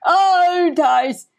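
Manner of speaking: high exclamation, each falling away; drawn-out comic outcry, easing down; mock outcry. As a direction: repeat the name as a playful lament. Repeated mock outcry at Tice.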